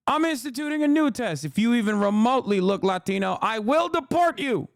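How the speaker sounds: put-on high, cranky old-man voice; Biden impression. Streamer mocking Biden announcing deportations, high and cranky. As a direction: announce it like a gruff old leader. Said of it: "He's like".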